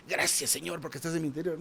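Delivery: unhurried, sincere prayer; deliberate sincere prayer. Shown as a demonstration. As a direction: say it like you mean it. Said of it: "Y ahora dije".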